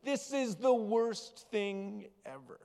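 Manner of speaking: high, woeful little bird complaint. Acted. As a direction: whine it like a sorry little bird under a pile. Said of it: "the little bird says".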